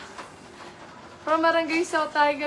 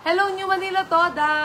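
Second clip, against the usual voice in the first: loud shout-out; 5 semitones higher, 3 dB louder than usual. Real, not acted. Loud shout-out greeting to viewers.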